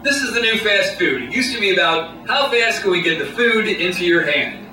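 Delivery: lightly voiced boardroom pitchman; a hint of corporate presenter, increasingly emphatic; marketing guy. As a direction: pitch it like an ad executive, building to a slogan. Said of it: "the marketing guy, the Don Draper type".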